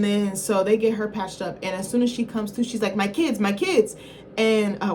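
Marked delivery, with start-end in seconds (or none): 3.0-3.9 put-on a slight lilt imitating a singer on "My kids, my kids"; sounding like a singer. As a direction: lightly slip into the singer's voice for the frantic mother. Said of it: "why did I sound like Amara La Negra?".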